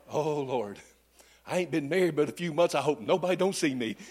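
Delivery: hushed, mock-anxious aside to the Lord; quietly panicking under the breath, played for laughs; worried inner thought. Preacher retelling his nervous prayer while holding a crying stranger, hushed.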